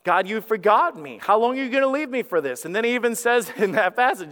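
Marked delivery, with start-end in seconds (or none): 0.0-2.6 raised, urgent complaint to God; pleading complaint. Retold or imitated. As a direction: cry out as if left behind. Voicing David's complaint to God.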